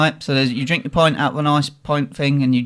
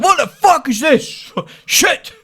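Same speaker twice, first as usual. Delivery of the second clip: high, laughing shout of disbelief; shocked shout; 12 semitones higher, slower than usual. Retold or imitated. Mates seeing the terrible film, high laughing shout. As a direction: yell it laughing in horror.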